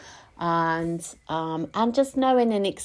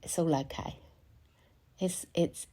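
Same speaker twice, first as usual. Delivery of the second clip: soft, lower self-soothing murmur; retold self-reassurance; 3 semitones lower, 9 dB quieter than usual. Speaker retells calming herself after waking in panic, softly reassuring. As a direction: quietly talk yourself down, as retold. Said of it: "I just reassured myself".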